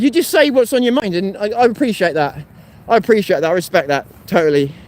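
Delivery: breathless, short of air; catching breath between words. Real, not acted. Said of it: "God, I'm out of breath".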